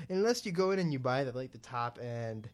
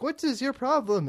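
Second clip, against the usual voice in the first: pitched way up and louder, imitating his snippy retort; mock indignant tech guy; 11 semitones higher, 8 dB louder than usual. Retelling a tech support call, the agent snaps back in mock indignation. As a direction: throw the question back like you're offended. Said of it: "he's like".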